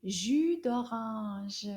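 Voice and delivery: drawn out very slowly; slow teacher model. Shown as a demonstration. Teacher models the juice name for pupils, very slowly. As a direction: stretch each sound for the class. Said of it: "It's called".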